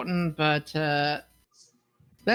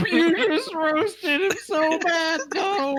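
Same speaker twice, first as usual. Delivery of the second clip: laughing; 9 semitones higher, 4 dB louder, slower than usual. Real, not acted. Laughing at the roast.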